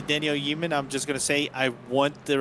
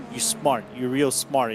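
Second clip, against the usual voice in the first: put-on New York accent. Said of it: "New York accent into this".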